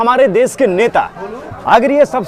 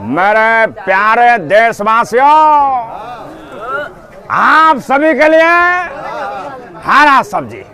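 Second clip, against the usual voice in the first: lightly voiced prime minister speech; slow, measured address to the nation; Narendra Modi impression. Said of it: "प्रधानमंत्री जी माननीय श्री नरेंद्र मोदी जी".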